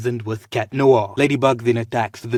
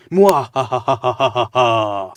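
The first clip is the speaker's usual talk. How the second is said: very slow, drawn-out loud villain cackle; evil laugh; 5 dB louder, much slower than usual. Pretend. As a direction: stretch the cackle out like a theatrical villain. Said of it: "I am evil because I am laughing like this".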